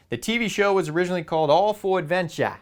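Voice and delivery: put-on horrible Australian accent. Naming an Australian TV show to viewers, in a mock Australian accent. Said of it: "That was probably a horrible Australian accent".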